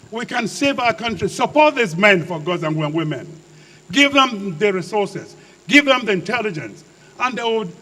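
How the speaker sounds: impassioned, emphatic public speech; passionate oratory. Real, not acted. Retired officer defending his army's courage to an audience, passionate. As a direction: drive each point home with passion. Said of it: "I speak like this passionately".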